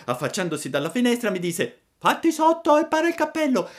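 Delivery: bright, fast little puppet voice, pleading; a hungry wooden boy telling his woes; high puppet voice. Acted. Pinocchio racconta a Geppetto la sua fame, voce acuta da burattino.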